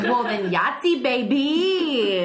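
loud, gleeful celebration; excited. Real, not acted. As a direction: cheer it like a jackpot win. Lucky tarot draw celebration.

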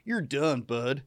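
lightly put-on Canadian accent; mock Canadian. Host mocking the attacker in a light Canadian accent. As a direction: retell it with a hint of Canadian. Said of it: "might as well have been Canadian".

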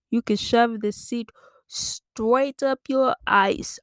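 high, slow mock-Irish with "ice" for arse; drawn-out Irish attempt, "ice" gliding like eyes; botched Irish accent. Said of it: "I don't know how to do an Irish accent".

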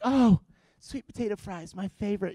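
wife hinting. Retold or imitated. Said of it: "she's like".

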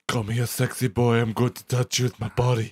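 lightly voiced deep-voiced seductress; a hint of a husky-man voice on a woman; Femme Brando. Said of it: "she had a voice much deeper than his own".

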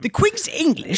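high-pitched incredulous echo; mock astonishment. Real, not acted. Co-host echoing the letter's claim, high and incredulous. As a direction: repeat it as a high, disbelieving question.

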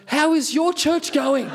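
high, slow and laughing, echoing his question back; awkward parroting. Retold or imitated. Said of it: "and I go".

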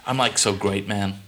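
badly faked American slang voice; American accent. Host summing up shows on request, mock American accent. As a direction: parody a casual American accent. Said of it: "sixteen shows in an American accent".

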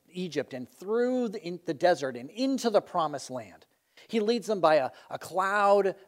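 proud, emphatic listing of feats; boasting sheep. Acted. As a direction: brag on with weighty stress on "my shepherd". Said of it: "He's boasting".

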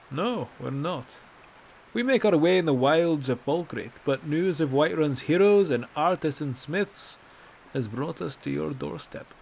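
proud wilds man explaining; Bracknell's hearty voice. Acted. Bracknell explaining their trip.

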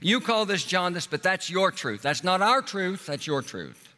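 lightly voiced defiant parent. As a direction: argue it away like a parent in denial. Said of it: "you as a parents respond by saying".

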